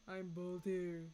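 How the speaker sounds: "I'm Boldir" low and slow; deep Boldir voice. Shown as a demonstration. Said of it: "Wait, why would it be deep?".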